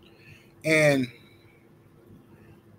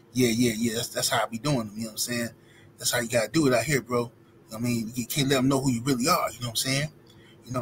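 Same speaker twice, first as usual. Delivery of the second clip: lower, a touch quieter, cool and easy; deep brother voice; 5 semitones lower, 4 dB quieter than usual. Retold or imitated. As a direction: drop back to a laid-back low voice. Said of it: "deep voice".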